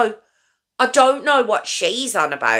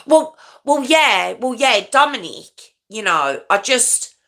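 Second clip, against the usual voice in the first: stammer, caught off guard; stuttering; 2 semitones higher than usual. Retold or imitated. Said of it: "as she stutters over something".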